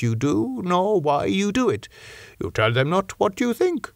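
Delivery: a hint of a grave foreign scholar, measured; old Dutch professor. Van Helsing speaks to Seward.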